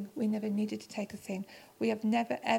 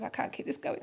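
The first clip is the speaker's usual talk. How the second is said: breathy whisper, a little higher; whispered plea; 4 semitones higher, 4 dB quieter than usual. Retold or imitated. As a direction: whisper it to God, at the end of her rope. Desperate prayer during long meeting.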